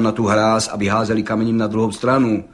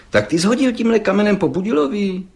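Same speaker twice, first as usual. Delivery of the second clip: stern questioning; 9 semitones higher than usual. Retold or imitated. Gendarme interrogates the lad.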